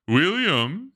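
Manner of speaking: called high and loud across the yard; calling out. Acted. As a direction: call up into the trees for him. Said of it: "he called".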